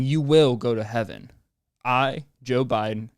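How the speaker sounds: lightly voiced mock proclamation; mock godlike Biden. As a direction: pronounce it like a would-be god, slowing down. Acts Biden granting himself godly power.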